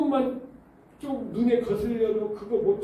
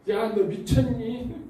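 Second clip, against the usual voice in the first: mock incredulous friend; 6 semitones higher, much slower than usual. Friend reacts to becoming pastor's wife.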